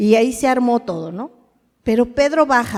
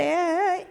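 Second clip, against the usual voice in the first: high, soft mimicked toddler-wobble "eh"; 6 semitones higher, 5 dB quieter than usual. Imitates cheering a tottering toddler.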